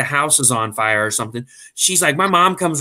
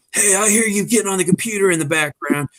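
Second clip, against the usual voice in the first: put-on celebrity caller, higher pitch; raised, accusing phone-host voice; a singer; 7 semitones higher than usual. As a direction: imitate a singer catching a cheat on the phone. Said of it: "you pretend you're a singer".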